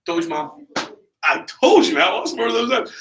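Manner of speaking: high-pitched, triumphant crowing; excited I-told-you-so. Retold or imitated. New rep vindicated before mom, excited. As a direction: crow to mom in delight.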